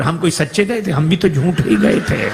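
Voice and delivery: the guest's cheeky reveal; guest's punchline. Retold or imitated. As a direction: guest pops back in with the punchline. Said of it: "तब तक मेहमान भीतर".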